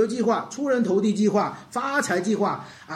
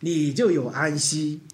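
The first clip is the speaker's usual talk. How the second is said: voicing Jesus; 3 semitones higher, 4 dB louder than usual. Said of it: "这是主耶稣说".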